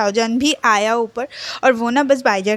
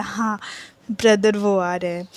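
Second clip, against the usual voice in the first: lovingly; 2 semitones lower than usual. Retold or imitated. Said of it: "प्यार से बोला".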